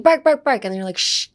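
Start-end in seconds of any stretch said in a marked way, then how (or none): 0.0-0.6 higher, louder mock barking on "Bark"; imitated dog barks. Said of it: "when they're like". 1.0-1.3 shushing a noisy dog; a "be quiet" shush; hushing hiss. Acted. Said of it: "be quiet for a second".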